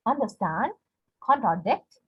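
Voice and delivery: "Understand", "contradict" rising onto STAND and DICT; stress on last syllable. Shown as a demonstration. Teacher repeating anapestic examples, last syllable stressed. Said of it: "two unstressed syllables followed by a stressed".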